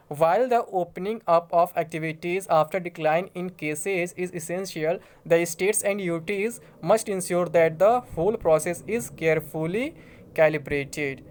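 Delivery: slow, formal reading of an official letter. Acted. Vlogger reads the home secretary's letter to viewers, slow formal reading. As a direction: read the official notice word by word.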